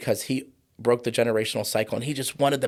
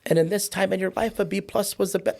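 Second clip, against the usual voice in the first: raised, passionate pitch climbing high; getting worked up over the point; heated, earnest conviction; fired up; 7 semitones higher than usual. Real, not acted. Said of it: "I get all fired up".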